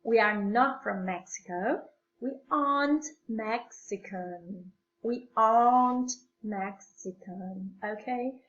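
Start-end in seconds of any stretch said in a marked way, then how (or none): 2.2-7.8 "aren't" said "ahnt", R almost silent. Shown as a demonstration. Teacher showing students aren't with the R nearly dropped. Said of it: "Quasi non si sente la R when you pronounce it".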